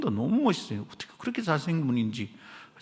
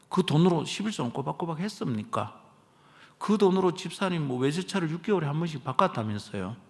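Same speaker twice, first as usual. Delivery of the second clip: measured, point-by-point needling rebuke; quiet needling. Retold or imitated. Pastor retelling his rebuke to the deacon, quietly needling. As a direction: needle them with one pointed question after another. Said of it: "조곤조곤, 깐죽깐죽".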